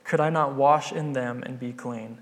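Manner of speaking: retold outrage of an insulted nobleman; indignant rant. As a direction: huff about being slighted. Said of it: "He went away in rage".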